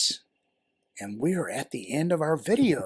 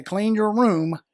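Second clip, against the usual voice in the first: firm parent command; 5 semitones higher, 4 dB louder, slower than usual. Shown as a demonstration. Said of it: "When I look at them and say".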